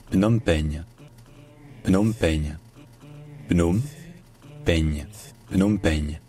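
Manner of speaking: "Phnom Penh" as pnôme plus French peigne; Frenchified Khmer name. Shown as a demonstration. Teacher modelling Phnom Penh in French, close to Khmer. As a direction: say "Phnom Penh" as p-nôme pègne. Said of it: "en francisant le mot".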